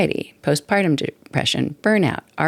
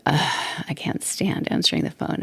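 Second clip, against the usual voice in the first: soft, whispered grumble of annoyance; daughter-in-law imitating her mother-in-law's whispered complaint; annoyed mother-in-law; 5 dB quieter than usual. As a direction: mimic her dread of the ringing phone. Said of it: "and she said".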